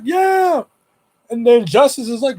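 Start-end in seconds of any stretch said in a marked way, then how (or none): 0.0-0.6 shouted yeah. Retold or imitated. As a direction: holler it across the road. Answering across the street.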